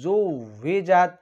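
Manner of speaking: জুভিজাত with a firm ঝ; hard jha. Shown as a demonstration. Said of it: "কিন্তু আমি বলছি".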